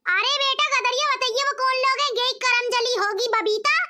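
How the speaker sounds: a lightly voiced nagging old saas cursing her bahu; scolding mother-in-law. (बहू को कोसती सास, धीमी नीची आवाज़)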